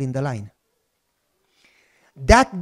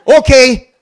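loud laughing okay, higher; 6 semitones higher, 10 dB louder than usual. Retold or imitated. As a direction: give in with a laugh. Consul giving in, laughing.

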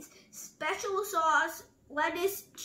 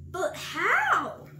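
higher, louder question; the crowd crying out to the zebra; cried out; 5 semitones higher, 7 dB louder than usual. A narrator's reading. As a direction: cry it out together. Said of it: "cried everybody".

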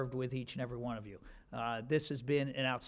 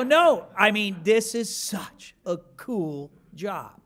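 laughing, louder, then slowed and drawn out; laughing enthusiasm; 5 semitones higher, 9 dB louder, much slower than usual. Retold or imitated. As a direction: gush with a chuckle. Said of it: "and I go".

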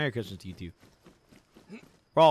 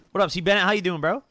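frat bro; 7 semitones higher, 6 dB louder, faster than usual. Real, not acted. Greeting a player in game.

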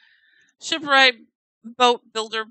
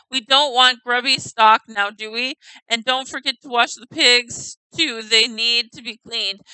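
louder, lightly voiced bossy master; 6 dB louder than usual. Master ordering the farmhand to clean, louder. Reading NPC master's dialogue.

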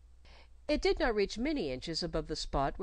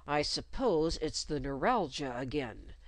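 quiet heat; 2 semitones lower than usual. Acted. Nurse Jane mocking the governess, quiet heat. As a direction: needle her with quiet heat. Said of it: "she suggested with quiet heat".

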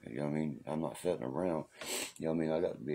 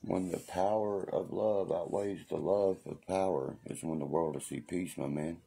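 quoting a rock musician; 3 semitones higher than usual. Retold or imitated. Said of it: "He says it like that".

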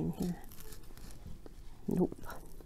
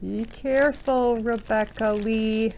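self-scolding; much slower than usual. Real, not acted. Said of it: "My middle name is Lee".

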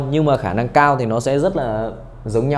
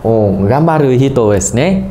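emphatic reading; 5 dB louder than usual. Shown as a demonstration. Teacher reads example aloud.

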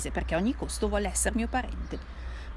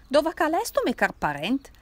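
put-on louder Piedmontese drunk repeating his call; strong Turin accent; 7 semitones higher, 6 dB louder than usual. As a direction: bellow it again in thick Turinese. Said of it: "con stretto accento torinese".

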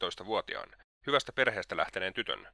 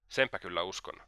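muttered under the breath, sneering; mocking mutter. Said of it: "mutisi Raskolnikov pilkaten".

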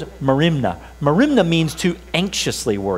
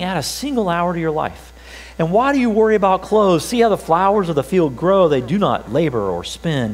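scripture reading. Acted. Pastor reading Jesus' words to the church, earnest and raised. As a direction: proclaim the verses to the congregation. Reads Matthew six aloud.

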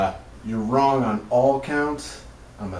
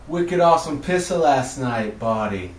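mock Boston accent; 3 semitones higher, 4 dB louder than usual. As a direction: lay on a goofy Boston accent. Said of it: "That's a Pittsburgh accent".

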